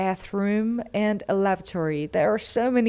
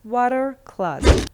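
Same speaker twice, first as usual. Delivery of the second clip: "Water closet" repeated higher and louder; emphatic; 4 semitones higher, 5 dB louder than usual. Shown as a demonstration. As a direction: call out "Water closet" brightly. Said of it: "What W C stands for?".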